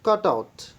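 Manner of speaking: teacher sounding out "cut out"; two-syllable demonstration. Shown as a demonstration. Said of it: "cut is one syllable".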